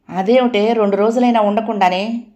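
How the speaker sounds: a touch of astonishment; surprised. Acted. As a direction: ask in dismay. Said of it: "ఆశ్చర్యంగా అడిగింది".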